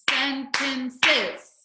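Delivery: SENTENCES split into sen-ten-ces; syllable by syllable. Shown as a demonstration. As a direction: clap out each beat of "Sentences". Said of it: "syllables where you clap for the word".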